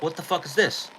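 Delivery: mild mock yell of a furious man; retold angry confrontation. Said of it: "I'm like".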